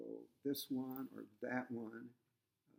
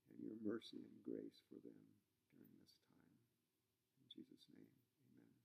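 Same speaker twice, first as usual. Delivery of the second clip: opening prayer. Acted. Pastor praying with congregation before the text, earnestly. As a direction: pray it sincerely, easing down toward amen.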